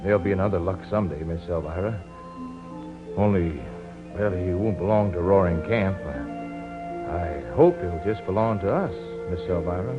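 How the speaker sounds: low, soft reassurance; gentle and subdued; tender consoling. Acted. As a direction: comfort her quietly with halting hope. Consoling a grieving woman.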